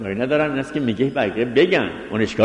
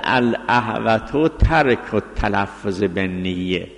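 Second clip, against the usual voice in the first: reads the Arabic ruling slowly, word by word; slow text reading; 2 semitones lower, much slower than usual. Shown as a demonstration. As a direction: spell out the quoted ruling deliberately. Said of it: "مطلب اول این است که گفته".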